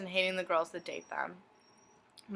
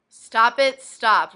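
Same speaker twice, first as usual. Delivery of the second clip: mock shout; 4 semitones higher, 11 dB louder, much slower than usual. Reading a message, suddenly shouts.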